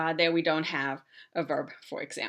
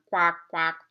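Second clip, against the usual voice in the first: throaty frog quack; 4 dB louder than usual. Shown as a demonstration. Teacher showing how a German frog says quack. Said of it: "say it in your throat a little bit".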